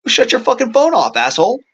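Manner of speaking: angry shout. Retold or imitated. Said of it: "dude down in fucking first row goes".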